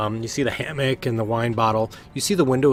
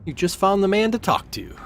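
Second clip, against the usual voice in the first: much higher, louder, pushy friendly sailor; high eager sailor voice; eager recruiter; 9 semitones higher, 5 dB louder than usual. Acted. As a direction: hurry them along with a grin.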